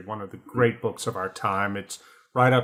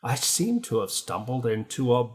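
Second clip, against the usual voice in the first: put-on a light, laughing try at a posh English accent; half-hearted imitation of an English playwright's accent; Tom Stoppard English accent. Retelling drinks with Tom Stoppard in a faintly English accent. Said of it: "I can't even do his accent".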